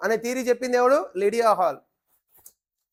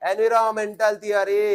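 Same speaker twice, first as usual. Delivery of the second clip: slow emphatic repeat. Shown as a demonstration. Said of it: "ఏ మెంటల్?".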